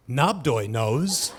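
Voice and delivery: low, slow, drawn-out pronouncement; misprinted quote. Retold or imitated. Freshman misquoted in the campus paper, low and portentous. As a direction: read the misprint slowly, low, rising at the end. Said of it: "so it looked like I said".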